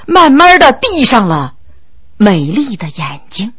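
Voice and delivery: ordinary delivery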